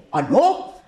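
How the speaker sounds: drawn-out big bad wolf threat; wolf threatening the piglet. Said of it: "Y el lobo dijo".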